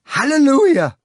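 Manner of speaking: high, loud jazz singer's scream; desperate high scream. A narrator's reading. Singer screaming to the jazz band, high and desperate. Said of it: "high-pitched male voice screamed desperately".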